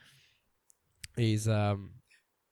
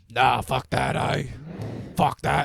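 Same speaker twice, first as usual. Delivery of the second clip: mock dismissive brother; 6 dB louder, slower than usual. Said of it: "he's like".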